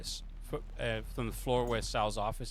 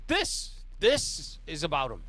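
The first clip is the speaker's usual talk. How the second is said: high, fast outbursts; angry boss venting at the player; exasperated mob boss; 8 semitones higher, 3 dB louder than usual. Acted. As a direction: boss fuming about the failed meeting. GM voices Sal.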